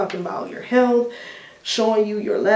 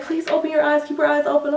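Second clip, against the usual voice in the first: a higher, lightly voiced nurse coaxing; imitating the nurse; 7 semitones higher, faster than usual. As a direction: coax her awake like the nurse did. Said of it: "She was like".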